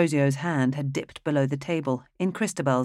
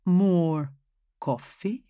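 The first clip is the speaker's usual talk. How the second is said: courteous; 3 semitones higher, much slower than usual. Acted.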